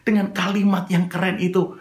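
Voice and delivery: ordinary delivery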